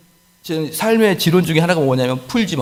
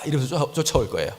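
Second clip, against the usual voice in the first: ordinary delivery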